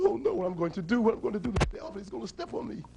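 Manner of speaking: lightly panicked hiding lion; fretful, with pitch lifted; mild mock fright. Lion hides from elephant.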